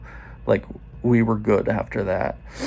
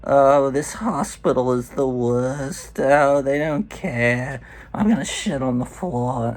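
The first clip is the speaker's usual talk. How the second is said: mock wailing woman, higher with dragged-out words; imitated screaming woman; 3 semitones higher than usual. Patient down the hall complaining about the hospital, mock screaming. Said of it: "I'm hearing a woman screaming".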